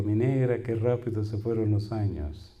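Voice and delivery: slow, tender words to his wife. Retold or imitated. Preacher quoting himself tenderly to his wife about passing years. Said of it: "le digo".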